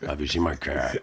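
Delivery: put-on a confused old woman's voice; dotty absent-minded old lady. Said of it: "Your turn".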